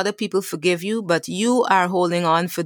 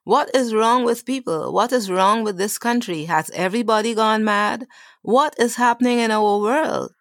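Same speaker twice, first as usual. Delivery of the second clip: higher, incredulous ranting at the news; mock outrage; 4 semitones higher than usual. Olivia fuming at the TV news, higher and outraged. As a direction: play the scandalised viewer throwing up her hands.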